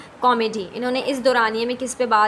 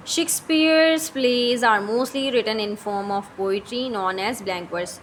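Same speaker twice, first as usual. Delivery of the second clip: slow, deliberate dictation of English notes; reading notes aloud; much slower than usual. Shown as a demonstration. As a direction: read each word out slowly for the class. Reads English notes slowly.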